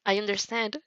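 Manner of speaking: a hint of gentle softness; lightly gentle reassurance. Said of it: "voice impossible gentle".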